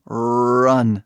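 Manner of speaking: "run" with a long, heavy initial R; thick English R. Shown as a demonstration. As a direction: lean into the R of "run" before the vowel. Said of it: "Bem grosso".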